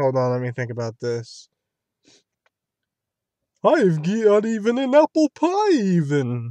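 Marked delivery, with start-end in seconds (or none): 3.6-6.5 cartoon lion voice, high, swooping, dragged out. Showing how the speaker's voice sometimes changes, doing a Snagglepuss voice. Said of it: "the guy that sounds like this".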